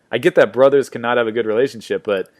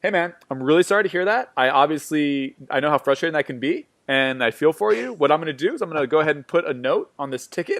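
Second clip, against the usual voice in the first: customer service voice. Retold or imitated. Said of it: "imagine Jordan going".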